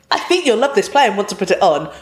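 lightly mimicked enthusiastic submission; eager script submitter. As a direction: imitate a keen hopeful writer pitching a play. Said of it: "quite a lot of scripts saying".

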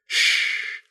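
sharp unvoiced shh; hissed shush. A narrator's reading. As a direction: hush him urgently. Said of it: "Wren hissed".

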